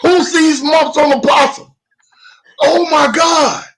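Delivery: high, loud laughing disbelief; real laughing. Real, not acted. Reacts to possum saying.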